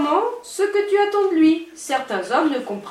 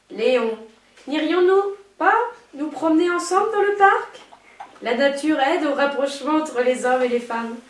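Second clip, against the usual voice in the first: breathy vintage purr. Shown as a demonstration. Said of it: "Prends une voix langoureuse pour dire".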